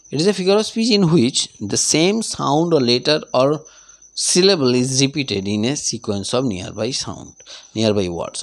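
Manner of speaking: unhurried classroom dictation; slow dictation. Shown as a demonstration. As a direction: read the definition very slowly, word by word. Dictates the definition.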